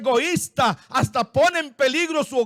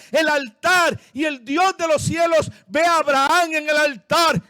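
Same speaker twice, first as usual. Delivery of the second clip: preaching at full force; 3 semitones higher than usual. Acted. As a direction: proclaim it to the whole church. Predica con fuerza. (predicación a toda voz)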